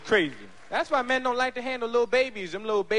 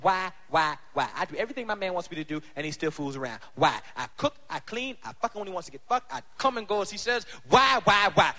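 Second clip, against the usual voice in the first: whiny woman; 3 semitones lower than usual. Retold or imitated. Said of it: "I had a woman ask me".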